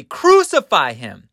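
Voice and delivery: acted shout for condemnation; crowd crying out. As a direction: cry it out insistently as the crowd. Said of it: "they cried out more exceedingly".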